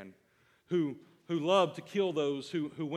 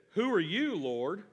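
questioning Saul; 2 semitones higher, 3 dB louder than usual. Acted. Saul's question in Bible reading.

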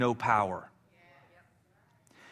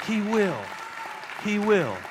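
emphatic promise; 7 semitones higher than usual. Real, not acted. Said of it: "he'll do it".

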